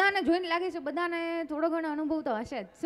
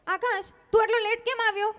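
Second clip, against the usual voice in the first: put-on girlfriend scolding; 4 dB louder than usual. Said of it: "girlfriend કેવી રીતે એની સાથે ઝઘડે છે".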